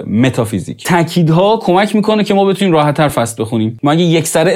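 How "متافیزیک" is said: متافیزیک with stress on the first part متا; stress on meta. Shown as a demonstration. Teacher showing word stress, stress on متا in متافیزیک. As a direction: hit متا, let فیزیک fall away. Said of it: "تاکید رو متاه".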